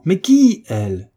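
loud, high, slow cry of confusion; bewildered shout. Acted. The baron crying out at the hunchback, loud and high. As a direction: yell it out, totally lost. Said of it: "cria le baron".

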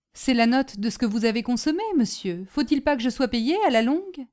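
lightly voiced impatient porter; insistent porter. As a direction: present the bill and expect payment.

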